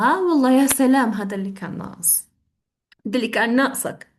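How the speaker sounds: quick sarcastic complaint in Arabic; rising "oh great", then dropping into a grumble; sarcastic exasperation. Shown as a demonstration. Teacher acting out sarcastic displeasure at bad news, sarcastic.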